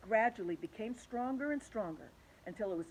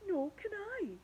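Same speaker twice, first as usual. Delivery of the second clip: wailed; 12 semitones higher than usual. Acted. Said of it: "wailed the glowworm".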